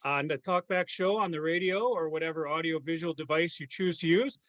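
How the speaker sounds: hammed-up Canadian podcast host; put-on Canadian lilt with tagged-on "eh"; mock Canadian accent. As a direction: greet listeners in a playful Canadian accent. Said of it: "keep up this accent. I'm glad that you can".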